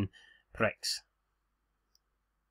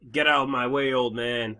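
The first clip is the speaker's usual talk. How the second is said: gruff Corbin voice. Retold or imitated. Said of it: "we'll just pretend he sounds like that".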